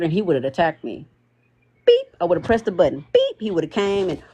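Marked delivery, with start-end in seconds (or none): 1.9-2.1 short high button beep; imitated beep. Speaker imitates pressing someone's button, imitated beep. 3.1-3.4 short high button beep; imitated beep. Speaker imitates pressing someone's button, imitated beep.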